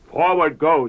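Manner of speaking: high, loud Forward go; the Son calls it out boldly; the Son answering the Father, loud and high; ringing reply. Acted.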